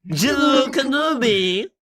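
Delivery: high, slow, shouted Grievous voice; General Grievous impression. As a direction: bellow the name like the cyborg general. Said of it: "he's kinda German".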